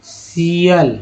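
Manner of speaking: सियल said as "si-al"; teacher's demo of सियल; suffix shial. Shown as a demonstration. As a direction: say सियल as a smooth "si-al". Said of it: "इसको बोलते हैं".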